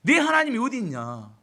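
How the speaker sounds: acted-out sneering accusation; mocking taunt. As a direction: taunt them like a scornful enemy. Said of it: "이렇게 조롱하고 비난합니다".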